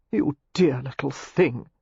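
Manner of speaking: slow, doting exclamation; fond exclamation. A narrator's reading. Clandrindon gushing over Daisy, fondly exclaiming. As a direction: dote on each word slowly. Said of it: "he exclaimed".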